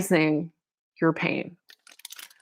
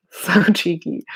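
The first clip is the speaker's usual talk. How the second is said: whispered aside. Real, not acted. Quiet aside while reading.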